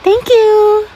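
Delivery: being tickled. Acted. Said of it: "Kinikiliti mo nga ako".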